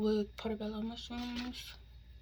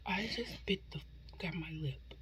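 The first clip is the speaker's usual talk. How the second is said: whispering; 3 semitones lower, 5 dB quieter than usual. Real, not acted. Bit lip while eating.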